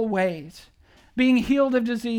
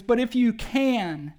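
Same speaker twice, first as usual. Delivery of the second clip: pleading father; 3 semitones lower than usual. Retold or imitated. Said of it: "he makes this one plea".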